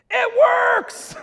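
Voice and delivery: a high, loud burst of triumph; thrilled shout. Retold or imitated. Teen telling his teacher the dare worked, thrilled high shout. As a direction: blurt it out like he just won.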